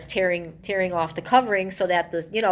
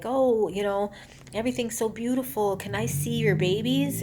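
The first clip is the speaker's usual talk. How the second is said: higher-pitched, lightly voiced admiring coo; gushing admiration; 5 semitones higher than usual. The speaker asking new mothers to see their babies, mock gushing.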